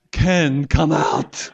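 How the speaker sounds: loud mock call into the tomb. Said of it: "cry out".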